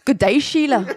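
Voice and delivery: badly faked Australian greeting; fake Australian accent. Giving his best accent for his mates, fake Australian accent. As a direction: attempt a light Australian accent. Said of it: "that's like a fake Australian".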